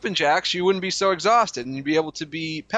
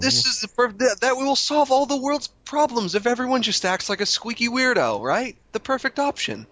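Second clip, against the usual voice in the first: higher squeaky mock voice; squeaky weirdo impression; 6 semitones higher than usual. Co-host mocks the host's squeaky voice, pitched higher. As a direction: squeak it like the annoying friend. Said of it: "little squeaky weirdo like you".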